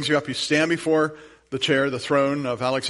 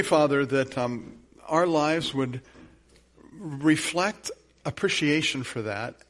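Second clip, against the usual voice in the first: earnest, slowed pastoral prayer; congregational prayer. Acted. Pastor prays over the congregation before communion, earnest. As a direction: pray over the people humbly.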